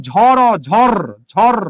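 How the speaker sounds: closed syllable ঝড় with a rolled final r; syllable demo. Shown as a demonstration. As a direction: say ঝড় on its own, stopping on the final consonant. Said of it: "আমরা বলি কি?".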